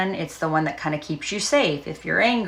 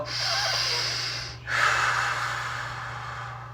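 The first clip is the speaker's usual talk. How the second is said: long exhale; 7 dB quieter than usual. Shown as a demonstration. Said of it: "breathing demo before affirmations".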